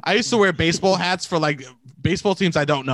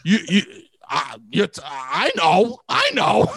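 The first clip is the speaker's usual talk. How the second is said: emphatic agreement; slower than usual. Acted. Bluffing knowledge to a stranger, emphatically agreeing. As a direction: agree hard, as if you know it all.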